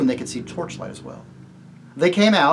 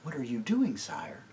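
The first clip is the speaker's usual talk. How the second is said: sharp whisper; 8 dB quieter than usual. Acted. Jewel asks the king what he is doing, sharp whisper. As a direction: hiss it in alarm. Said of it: "asked Jewel sharply".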